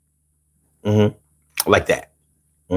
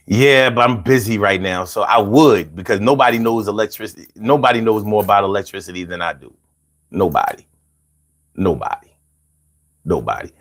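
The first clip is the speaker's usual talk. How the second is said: Trump impression; 5 semitones lower than usual. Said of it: "Trump answering imagined caller".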